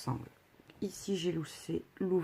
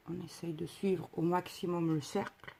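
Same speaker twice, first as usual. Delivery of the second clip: talking around pins held in lips; pins in mouth. Real, not acted. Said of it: "j'ai les épingles dans la bouche".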